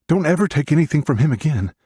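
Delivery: high-pitched, urgent scolding roar; big brother sternly warning, pitch pushed way up. A narrator's reading. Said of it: "I roar".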